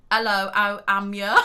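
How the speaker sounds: loud, deliberate Black Country greeting; nearly-right Black Country accent; Black Country accent attempt. Shown as a demonstration. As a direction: have a big go at Black Country. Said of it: "Yeah, nearly".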